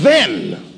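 "Then." read slow and falling; stress on then. Shown as a demonstration. Preacher pointing out the text's word, stressing "Then.". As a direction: land on the word "Then." flatly. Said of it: "the text says".

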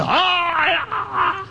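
high, wistful mock moan; longing groan. Starving cabbie sighing over pizza, high mock moan. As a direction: dream of the pizza aloud.

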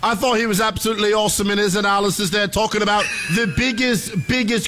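lightly put-on English accent; a hint of a British pundit. Host reading the segment in his put-on English accent. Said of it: "same accent!".

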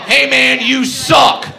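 mocking jeer from a heckler; heckler taunt. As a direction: taunt him like a rowdy heckler.

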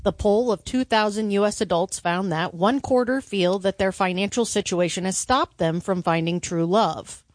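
even radio newsdesk delivery; news read. Acted. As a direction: read the survey as a news item. Reads survey at news desk.

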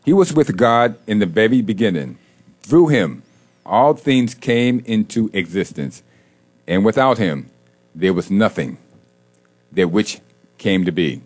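measured scripture reading with long pauses; very slow reading. Real, not acted. Host reading John for the day's prayer, very slowly. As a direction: read it out slowly so it resonates. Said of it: "I'm gonna read it very slow".

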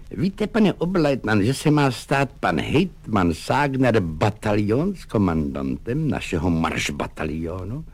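confidential wink. Acted. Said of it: "důvěrně mrkaje".

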